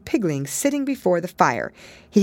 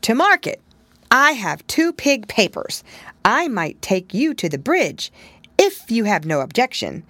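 higher, flustered; confused; 6 semitones higher, 3 dB louder than usual. Acted. Pigling shyly offers to take Pigwig. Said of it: "much confused".

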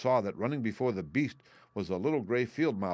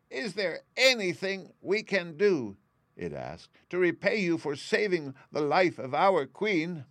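squeaky mouse voice; 9 semitones higher, 3 dB louder than usual. A narrator's reading. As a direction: ask like a small eager mouse. Biggest mouse asks Woodman.

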